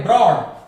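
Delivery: ब्रॉड said loudly with R sounded after B; R pronounced. Shown as a demonstration. Teacher gives an example, R pronounced in ब्रॉड. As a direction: say ब्रॉड with a clear R, falling in pitch. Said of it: "वहां पे आर जरूर बोलना है".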